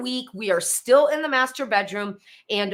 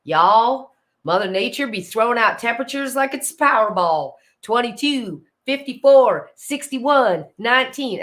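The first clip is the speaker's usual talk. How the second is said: folksy Southern drawl for a joke; 6 dB louder than usual. Acted. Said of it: "I say it with a Southern drawl".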